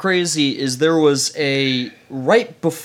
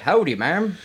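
friendly watchman; 3 semitones higher than usual. Retold or imitated. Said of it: "And he's like".

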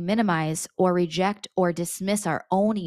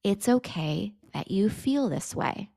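slow, tender "It's okay that you feel this way"; gentle slow self-reassurance; slower soothing repeat. Shown as a demonstration. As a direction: say it again slowly, reassuring yourself. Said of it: "I'd be like, 'Jamie".

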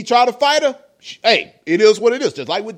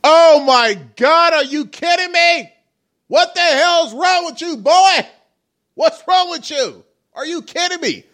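raging gamer; 5 semitones higher than usual. Real, not acted. Outraged reaction to the courtroom clip.

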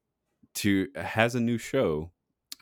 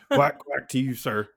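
duck voice; 7 semitones higher, 5 dB louder than usual. Retold or imitated. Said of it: "You know".

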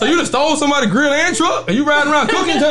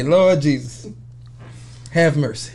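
much lower, dragged-out Lord Jesus; mock plea to the Lord; 10 semitones lower, 4 dB quieter, slower than usual. Retelling his reaction to the twenty-dollar plate, low mock plea. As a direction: drop the voice low for a mock prayer. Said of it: "I say".

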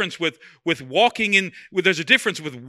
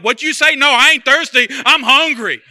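higher, louder mock outrage; flesh getting mad; 6 semitones higher, 10 dB louder than usual. Pastor acting the flesh snapping back, loud mock anger. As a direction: bristle like someone hit a button. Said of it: "suddenly you're like".

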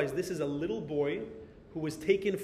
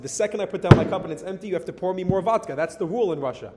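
insisting louder; 3 semitones higher, 7 dB louder, faster than usual. Retold or imitated. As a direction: repeat the rule louder and faster, insisting. Soldier repeats the rule insisting.

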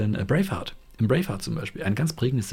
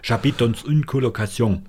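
put-on slow, louder French with a thick German accent; Kartoffelfranzösisch, German-accented French; heavy German accent French; 2 semitones higher, 4 dB louder than usual. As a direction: speak French like a German potato. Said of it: "sprich's wirklich mit ganz deutschem Akzent aus".

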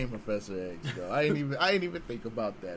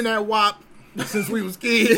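loud, high, laughing; laughing mock; 8 semitones higher, 8 dB louder than usual. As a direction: blurt it out through laughter.

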